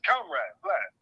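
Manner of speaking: bad mock Russian accent, Russian general briefing a comrade. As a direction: ham up a Russian officer. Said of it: "your Russian accent stinks".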